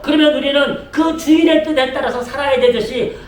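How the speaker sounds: rising, driving sermon delivery; forceful preaching. Real, not acted. Pastor telling the congregation to live by God's will, forceful preaching. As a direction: drive it toward a ringing declaration of faith.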